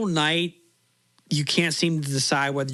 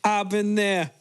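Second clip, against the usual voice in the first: mock bragging traveler; 6 semitones higher, slower than usual. S1 mocking the bragging stranger.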